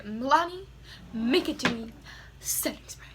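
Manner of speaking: product name said fancily; playfully fancy product announcement; fancy delivery. Real, not acted. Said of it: "I said that so fancily".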